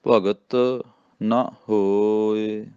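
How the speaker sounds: ਨਾ cut short as "na", ਹੋਏ drawn out; slow recitation with a brief ਨਾ; short bare vowel. Shown as a demonstration. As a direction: stretch ਹੋਏ, keep ਨਾ short. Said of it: "ਇਹਨੂੰ ਮੁਕਤਾ ਹੀ ਬੋਲਣਾ".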